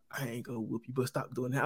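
retold mother's quiet warning. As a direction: lightly imitate a mom letting it go. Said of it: "Mama was like".

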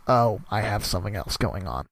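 normal talking voice

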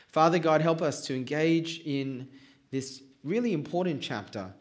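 prayer. Acted. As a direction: pray humbly before the reading. Pastor opens in prayer.

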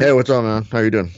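casual fighter-bro impression; Nick Diaz. Fighter answering the host's call, fighter-bro impression. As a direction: greet him as a laid-back stoner fighter.

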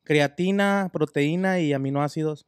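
loud gym bro hype; frat bro. Pretend. Hyping up the supplement mix.

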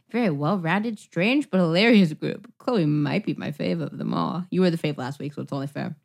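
lightly performed reading of a fan review; a hint of a live dramatic reading; review read aloud. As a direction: read it out like a letter to the hosts. Reads a listener review aloud.

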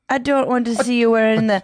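put-on slightly high, amateur Irish accent; attempted Irish accent. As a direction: put on a playful Irish lilt. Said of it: "so to do the accent".

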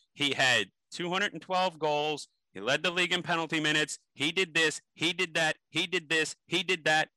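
a starstruck fan rattling off the father's stats; excited fan rattling off stats. Retold or imitated. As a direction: gush out the numbers like a starstruck fan. Fan reels off dad's stats.

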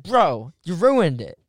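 hammed-up angry complaint. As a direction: imitate an angry fan's accusation. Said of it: "he was so angry that he's like".

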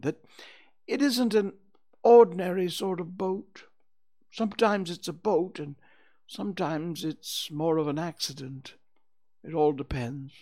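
high bear character voice; explaining Pooh Bear. Acted. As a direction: explain carefully as a little bear.

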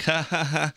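high, spaced-out mock laughter; imitated tripping laugh. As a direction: mimic a girl giggling while tripping. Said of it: "the girl just straight up".

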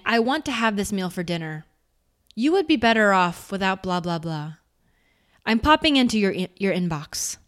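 steady, confident; powerful. Shown as a demonstration. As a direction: state it plainly with power. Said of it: "the other one was said with a little bit more power".

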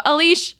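"Alish" broken off before its last vowel; "Alish" left unfinished, as if catching a slip; cut-off name. Retold or imitated. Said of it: "And then I stop".

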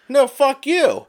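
loud, high-pitched retort; mock yelling. Caller answers the scammer back, gleeful mock yell. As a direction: throw the insult back, yelled in play.

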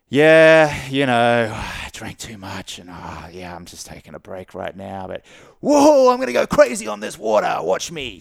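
mock yourself, then hype it up; hammed-up self-teasing; self-mocking fun. Shown as a demonstration. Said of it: "make fun of yourself as well".

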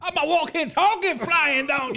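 squeaky cartoon donkey; Donkey impression. Cohost jumps in as Donkey, high and slow.

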